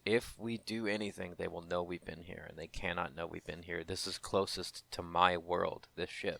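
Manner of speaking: softly voiced guard urging caution; hushed warning. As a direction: keep it low, a lightly voiced tense warning. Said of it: "Tyrus maintains".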